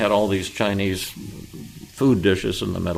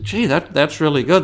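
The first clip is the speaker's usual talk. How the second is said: impressed; 6 semitones higher, 4 dB louder than usual. Retold or imitated. Tasting the food, impressed.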